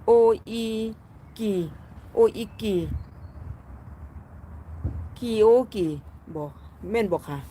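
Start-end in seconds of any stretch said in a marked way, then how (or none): 0.1-5.9 "โออี... กี" broken up, then "คิโอกิ" tried out; hesitant attempts at "โออีกี" and "คิโอกิ"; unsure pronunciation. Real, not acted. Streamer trying a Japanese-sounding name, unsure of pronunciation. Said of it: "ออกสำเนียงไม่ถูกเด้อนี่ค่ะ".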